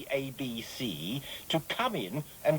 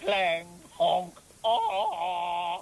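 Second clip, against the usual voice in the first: sound effects; 2 semitones higher, 3 dB louder, much slower than usual. Shown as a demonstration. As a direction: mouth noises for clang and honk. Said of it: "You could have just made the noises yourself".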